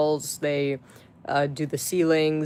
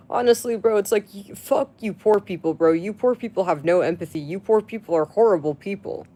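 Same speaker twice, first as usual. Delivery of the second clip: angry rant; 4 semitones higher than usual. Real, not acted. Ranting at poor commenters.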